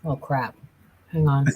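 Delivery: talking with a mouthful of food; words around a big bite; mouth full. Real, not acted. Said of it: "Swallow and then".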